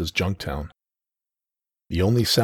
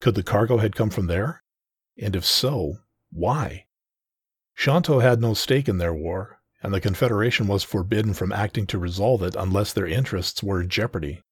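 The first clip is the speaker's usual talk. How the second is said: ordinary delivery, nothing marked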